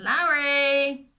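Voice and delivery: calling out. Acted. Shepherd searching the hillside, calling loudly for his lost sheep. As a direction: shout the name to find him. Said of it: "called out again".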